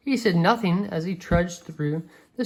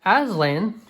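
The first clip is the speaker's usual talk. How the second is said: excited; 2 semitones higher, 4 dB louder than usual. Acted. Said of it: "cried Lucy with a shiver of excitement".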